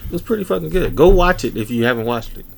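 talking while eating; mouth full. Real, not acted. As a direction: say it round a bite of food. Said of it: "Sorry, y'all, I'm eating".

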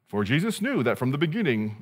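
tentative stab at a movie narrator; half-hearted narrator read, at ordinary volume; attempted narrator voice. Shown as a demonstration. Preacher trying out John as narrator for the congregation, half-hearted narrator voice. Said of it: "I can't do that voice".

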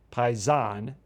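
Paisan said "pie-ZAHN", rising at the end; stress on second A. Shown as a demonstration. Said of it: "accent on the, the second A".

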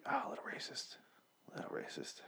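hushed, breathy aside muttered under the breath; a stage whisper of a joke; mock whisper. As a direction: whisper it like a secret you shouldn't say. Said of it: "and I'm like".

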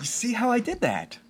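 conspiratorial whisper. Real, not acted. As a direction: whisper it like a shared secret. Teasing aside about the segue.

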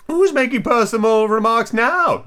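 high, slow, crowing Hatter; gloating eccentric character; triumphant. Acted. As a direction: crow it out high and drawn-out. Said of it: "asked triumphantly".

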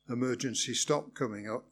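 hushed, to oneself; murmured inner voice; inner thought. Acted. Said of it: "I thought".

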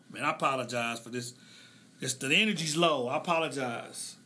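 soft, low and teary, fighting back tears; choked up, real tears. Real, not acted. Host apologizing to listeners while choked up, soft and teary. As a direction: speak quietly through real tears, voice dropping away. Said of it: "I'm tearing up".

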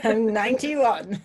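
slow mock old-timer through a laugh; lightly voiced old person. Friend joining the joke, a light mock old-lady voice. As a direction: echo the old lady's boast, laughing. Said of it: "start telling people how old you are".

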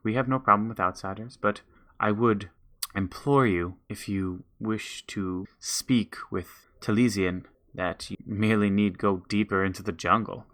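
a hint of a measured forest elder; wise forest elder. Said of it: "he says".

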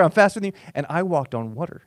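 a hint of Peter bragging, laughing; laughing mock brag. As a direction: Peter teasing John, giggly boast. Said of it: "Peter's like".

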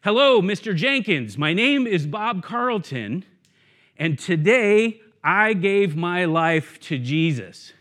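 retold careful, composed declaration; composed announcement. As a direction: declare it deliberately, slowing at the end. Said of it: "getting myself all composed".

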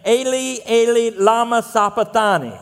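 carefully intoned Aramaic cry, southern-tinged; attempted Aramaic. Preacher quoting Jesus on the cross, attempted Aramaic cry with southern accent. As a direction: recite Aramaic with a southern accent, not shouting. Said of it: "that is, uh, the best Aramaic that I can do".

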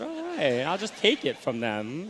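high, loud thought in an altered voice; voiced inner thought. Boy justifying stealing from parents, high pitched inner voice.

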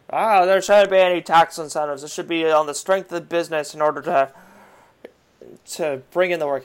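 put-on loud old-timey grumble; a touch of an old-timer. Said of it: "I don't know why I did old-timey voice".

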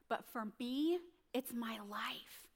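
slow down into a near whisper; the pig's grave, hushed reply; hushed gravity. Acted. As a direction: drop to a slow whisper at the end. Pig's grave answer in the fable.

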